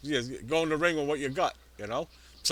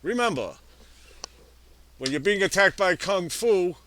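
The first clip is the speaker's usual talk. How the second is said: hammy radio ad voice; mock ad read. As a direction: sell it like a cheesy sponsor spot. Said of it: "that one sucked".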